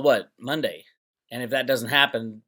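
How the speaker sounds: ordinary talk, nothing marked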